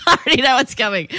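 a real laugh rolled into the line; amused knowing repeat. Real, not acted. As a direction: giggle through it, delighted. Listener laughing at the setup.

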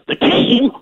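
high, slow, bitter movie-speech voice; Nick Nolte monologue. Retold or imitated. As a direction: deliver it like a bitter, broken veteran. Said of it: "Nick Nolte's monologue at the end of North Dallas forty".

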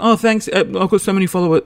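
lightly voiced chatty man, quick and high; imitating his real, hurried way of talking; Andrew. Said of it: "that's how he actually sounds".

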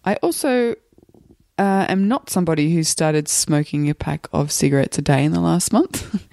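hoarse from the flu; rough, croaky sick voice. Real, not acted. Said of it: "If you'll excuse my croaky voice".

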